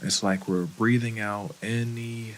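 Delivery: calm, unhurried meditation guide with long pauses; guided meditation. Acted. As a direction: gently lead them into breath and body, leaving space between phrases.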